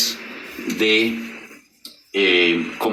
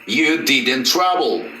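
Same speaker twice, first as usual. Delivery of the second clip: "I didn't work" said very slowly, each word apart; slow model sentence; 2 semitones higher, much slower than usual. Shown as a demonstration. Teacher models "I didn't work" slowly for students. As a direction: spell it out slowly for the class. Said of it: "travel va a ir en presente".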